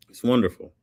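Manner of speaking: "It's wonderful" lifted up, falling at the end; emphatic repeat. Real, not acted. Repeats own praise, then louder.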